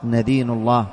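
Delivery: "ندين الله" pronounced "nadinu llah"; short a on the first letter of "ندين"; fatha on the nun. Shown as a demonstration. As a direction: start "ندين" with an open "na". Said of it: "فالصواب بالفتح".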